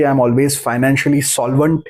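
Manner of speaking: slow, deliberate affirmation, calmly certain. Shown as a demonstration. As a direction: speak it slowly as settled fact. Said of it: "आप ये भी बोल सकते हैं कि".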